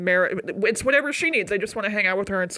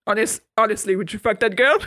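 mock French accent; hammed-up French accent; French accent impression. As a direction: put on a bad French accent. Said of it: "made that joke and done that impression".

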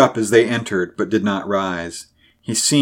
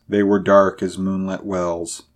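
plain reading voice

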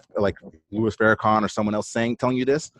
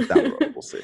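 put-on jokey Valley Girl accent, pitched way up. Guest trying the promised Valley Girl accent, teasing. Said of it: "the accent for y'all".

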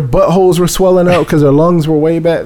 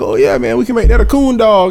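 raised, easygoing country neighbor voice; quoting Mister Jimmy; 6 semitones higher than usual. Retold or imitated. Neighbor offering to help train the dog, lightly mimicked. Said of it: "He was like".

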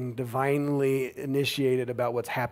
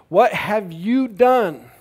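louder, higher and slow, aghast; terrified cry; 5 semitones higher, 6 dB louder, much slower than usual. Acted. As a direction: let the horror ring out, drawn out. Sailors' terrified question, reread dramatically.

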